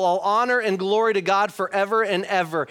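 emphatic praise, mildly lifted; emphatic, excited reading. Acted. Preacher rereading Paul's praise verse, emphatic and excited. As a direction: read it with an exclamation point. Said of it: "He's emphatic about this".

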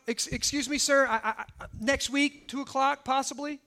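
mock-hesitant stammer, slightly softened; timid polite request. Imagined woman asking for an appointment, timid and halting. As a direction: tentatively feel out a request, stumbling politely. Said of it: "She, she doesn't say".

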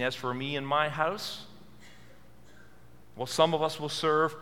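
noncommittal, with a rising lilt and a hesitant pause; tentative misquote. Acted. Preacher misquotes Joshua's vow to make a point, tentative. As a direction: quote it half-heartedly, leaving it hanging. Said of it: "No, he didn't say that".

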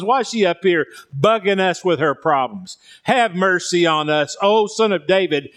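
mock complaint from fed-up disciples; annoyed disciples. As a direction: grumble as the irritated disciples, lightly acted. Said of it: "the disciples begged him and said".

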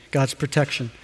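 amazed, hushed. Shown as a demonstration. Preacher marvelling to the congregation at God's protection, hushed.

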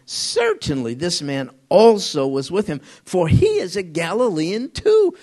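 acted-out insistence with punched words; insistent. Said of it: "another man began to insist".

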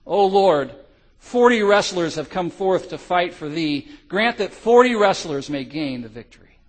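loud earnest prayer cry. Acted. Freezing soldiers crying out to God, loud fervent prayer. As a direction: lift the prayer up to the Lord. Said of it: "began to cry out now".

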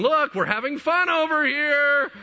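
high, loud, drawn-out holler; calling out. Retold or imitated. God luring the Jewish people back, calling out. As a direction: call over teasingly to people far away.

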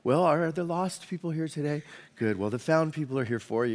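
mock superior, softly condescending. Preacher mimicking churchgoers greeting lost people, mock superior. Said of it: "it kinda sounds superior".

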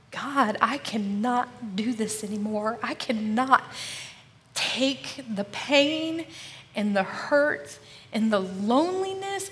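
slow, pleading cry to God; desperate prayer. Retold or imitated. Collapsed on the bed, crying out to God, pleading. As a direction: beg God, breaking down. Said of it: "I am like".

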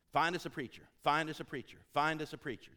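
"Find us a preacher" called out loud, stress on find; loud demo holler. Shown as a demonstration. Preacher demoing the loud call for the volunteer. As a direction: holler it like calling across a field. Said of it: "Here's the phrase".

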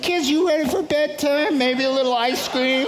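put-on high-pitched voice to the kids; dad's mock-casual offer. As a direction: deflect with a high, sing-out question. Dad acting out distracting upset kids.

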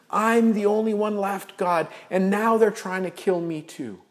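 a prophet losing patience, saying it all again; exasperated complaint. Acted. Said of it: "Elijah replies verbatim".

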